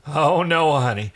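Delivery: singsong the honey like a taunt; sing-song. Acted. Crichton taunts Aaron sweetly while holding the gun, sing-song. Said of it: "said Crichton in a sing-song voice".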